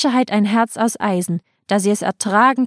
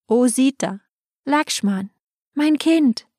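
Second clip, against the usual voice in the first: much higher, pained calling; anguished cry; 5 semitones higher, slower than usual. Acted. Mother calls after her departing children, anguished cry. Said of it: "mit Schmerzensschreien und wilden Gesten rief".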